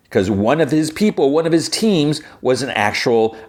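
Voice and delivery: high-pitched, worked-up fan rant; excited rant. Real, not acted. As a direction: pitch jumps high with indignation. Fan ranting against Bail.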